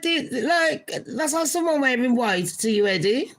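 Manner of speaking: indignant high voice. Pretend. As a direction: squeal it like a slighted bride. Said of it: "I'd be like".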